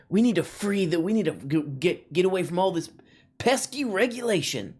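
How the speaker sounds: exaggerated, sarcastic grievance; mock political complaint. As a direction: mimic a fussy free-marketeer. Mocking deregulation advocates.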